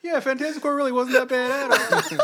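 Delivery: high laughing imitation of him; high mocking impression. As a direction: squeak out his praise while laughing. Imitating Mike praising Fantastic Four.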